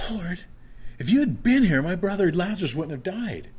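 a hurt sister reproaching the Lord; blaming tone. Shown as a demonstration. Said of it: "like she's blaming Jesus".

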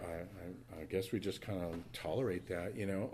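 mumbled lame excuse; limp shrug. Retold or imitated. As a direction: play the shrugging bystander. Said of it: "and we're like".

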